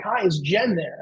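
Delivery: lightly imitated British caller; a hint of British on a phone query; retold line in a mild British accent. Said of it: "from a guy with a British accent".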